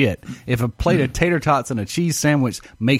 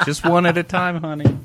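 laughing; 7 semitones higher than usual. Real, not acted. Laughing while joking about medicine.

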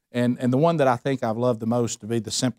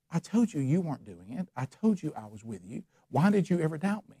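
gentle God voice; 6 dB quieter than usual. Retold or imitated. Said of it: "see God looking down going".

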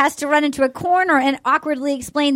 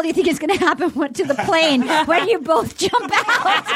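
laughing; 3 semitones higher than usual. Real, not acted. Laughing at own tweet read.

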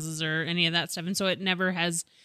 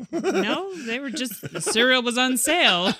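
defensive; 5 semitones higher than usual. Retold or imitated. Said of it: "I'm like".

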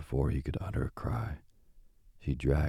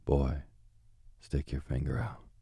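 lightly voiced witch. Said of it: "said to Hansel".

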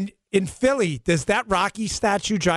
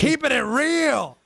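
quoting a TV catchphrase; 8 semitones higher, slower than usual. Retold or imitated. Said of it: "Remember that Chris Rock segment?".

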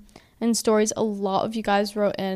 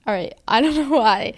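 tearing up; 2 semitones higher than usual. Real, not acted. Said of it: "I just started tearing up".

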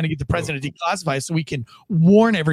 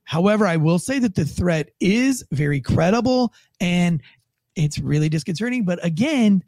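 lightly mocked calm-down official tone; calm but ominous official; 4 semitones higher than usual. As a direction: imitate a spokesman soothing while sounding worried. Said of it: "he says it in that tone of voice".

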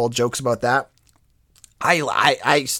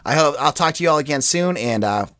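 raspy, worn-out voice from a cold; hoarse from a cold. Real, not acted. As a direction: talk through a sore, hoarse throat. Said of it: "so I have no voice left".

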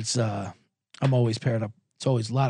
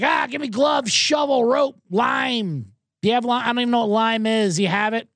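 clueless murderer; 5 semitones higher than usual. Retold or imitated. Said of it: "They're like".

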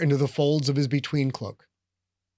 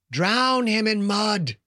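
whispery voice; 5 semitones higher, slower than usual. Acted. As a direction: breathe the words like a hidden menace. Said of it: "the whispery voice said".

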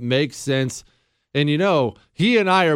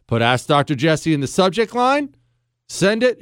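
ordinary delivery

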